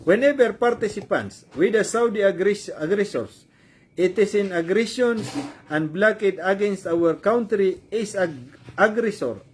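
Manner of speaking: slow, halting read-out in English; deliberate, stumbling English reading; reading aloud. Real, not acted. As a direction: read the statement out word by word. Reads an English statement aloud.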